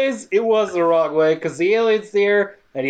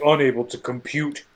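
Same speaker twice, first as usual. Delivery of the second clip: lightly voiced computer, low and soft; mock robot monotone; robotic computer; 4 semitones lower, 3 dB quieter than usual. Computer voice in movie recap.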